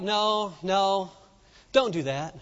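acted friend calming someone down; hushing friends. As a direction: gently talk them out of making a scene. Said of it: "their friends were like".

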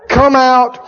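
slow, deliberate mock command; slowly recited mock exorcism line; reciting the formula. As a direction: draw out each part like memorizing a formula. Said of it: "did you write that down".

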